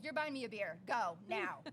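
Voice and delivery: firm retold command, punched at the end; bossy order. Retelling how she sent her date for beer, bossy. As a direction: order him off, loud on the last words.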